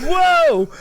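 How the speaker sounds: very high, loud mock astonishment; doctor's alarmed whoa. Retelling the doctor seeing the reading, wildly startled. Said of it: "He literally looked at it and went".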